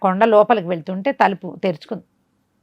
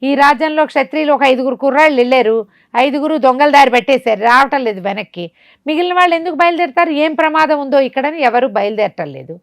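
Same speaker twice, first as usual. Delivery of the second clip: sorcerer ordering; 3 semitones higher, 3 dB louder than usual. Acted. Sorcerer scolds and plans sacrifice.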